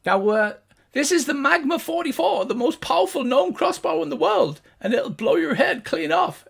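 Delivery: high gnome voice bragging; boastful gnome guard. Acted. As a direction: show off the crossbow proudly. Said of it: "And he says".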